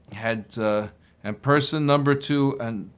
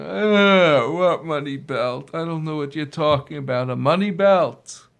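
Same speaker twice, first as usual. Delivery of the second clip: confused denial; 3 semitones higher, 3 dB louder than usual. Acted. Accused man wakes, confused.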